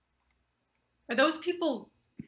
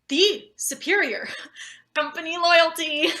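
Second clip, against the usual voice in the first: forced flattery; 4 semitones higher, 5 dB louder than usual. Acted. Sucking up to the boss.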